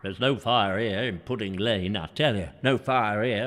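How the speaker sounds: very high, hammed-up screaming shouts; shrieked pretend panic; mock fire alarm. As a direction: raise the alarm like a comic town crier in panic. Acting out the Great Fire alarm.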